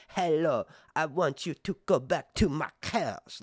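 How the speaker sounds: exaggerated foreign accent; hammed-up mimicry of an odd accent; mock Mysaria accent. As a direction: imitate a crazy, heavy accent. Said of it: "she's going to say".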